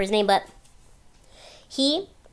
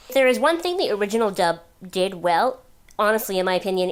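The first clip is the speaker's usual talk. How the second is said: ordinary delivery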